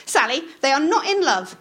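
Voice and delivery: rising indignation; mother insisting to the child; pitch rising. A narrator's reading. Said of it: "the pitch of her voice rising".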